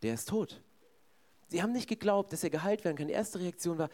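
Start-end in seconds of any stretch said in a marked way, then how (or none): 0.0-0.6 low, resigned statement. Retold or imitated. Preacher voicing onlookers' first reaction to the boy, resigned. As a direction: imitate onlookers who have given up.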